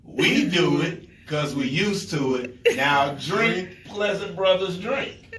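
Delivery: measured, slow toast in short phrases; ritual toast. Shown as a demonstration. Brother leading the drinking ritual for the guests, ceremonial toast. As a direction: recite it like a group's drinking creed.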